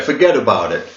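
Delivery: put-on mild New York accent, T in forget about it turned to a D; New York gangster accent. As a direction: forget about it said tough, Noo Yawk style. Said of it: "all the T's become D's, like a New York sort of thing".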